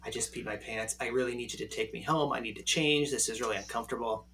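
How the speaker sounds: quoting her softly, low and hushed; imitating embarrassed date. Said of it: "she kept saying, she's like".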